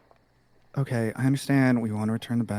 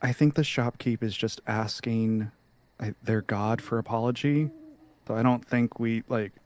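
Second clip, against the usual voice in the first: hushed aside; 2 semitones lower, 6 dB quieter than usual. Acted. Player quietly advising the group to leave, hushed aside. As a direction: keep it down so only the group hears. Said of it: "I'll whisper to the group".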